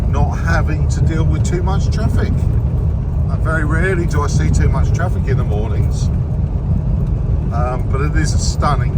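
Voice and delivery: talking while bouncing on a rough track; on a bumpy road. Real, not acted. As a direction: voice jolted by bumps. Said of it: "Sorry about the bumps".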